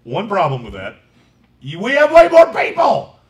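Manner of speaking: high, loud exasperated protest; exasperated quote. Retold or imitated. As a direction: squeak it out, exasperated. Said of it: "I'm immediately gonna say".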